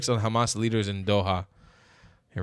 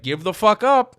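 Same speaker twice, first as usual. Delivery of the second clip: mock angry demand; 9 semitones higher, 5 dB louder, slower than usual. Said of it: "Israel was like".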